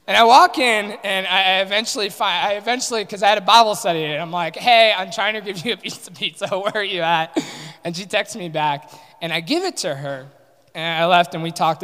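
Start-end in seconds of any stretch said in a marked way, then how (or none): 4.5-7.4 exasperated call. Retold or imitated. Frustrated calling out to friend.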